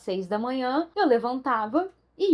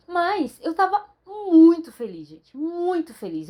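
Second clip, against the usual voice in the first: happy emphasis; 5 semitones higher, 4 dB louder, slower than usual. Real, not acted. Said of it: "emphasises her happiness".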